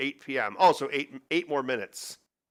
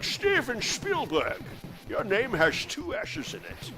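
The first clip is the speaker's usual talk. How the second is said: Sean Connery impression. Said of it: "Talk like Sean Connery as Henry Jones Senior".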